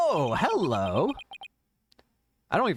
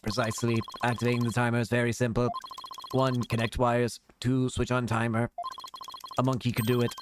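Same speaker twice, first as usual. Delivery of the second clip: robot voice. Acted. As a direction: speak like a typing machine. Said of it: "what a strange robotic voice you have".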